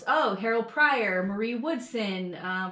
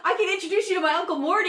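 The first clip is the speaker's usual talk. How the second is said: fast, higher, laughing offer; quick joking offer; 9 semitones higher, 3 dB louder, faster than usual. Retold or imitated. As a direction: rattle off the setup through giggles. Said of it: "then her dad goes".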